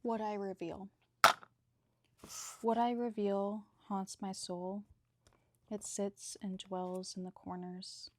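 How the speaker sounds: measured, even poem recital with pauses between lines; poem reading. Acted. Bookbinder reading own poetry to viewers, measured poem recital. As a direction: read your poem out firmly, line by line.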